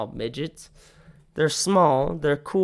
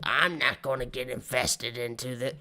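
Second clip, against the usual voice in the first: mock-dignified retreat; 4 semitones lower, 6 dB quieter than usual. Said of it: "his immediate words were".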